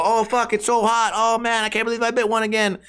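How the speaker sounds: mock regret after a fiery bite; overwhelmed by spice. Friends biting into his spicy wings, overwhelmed.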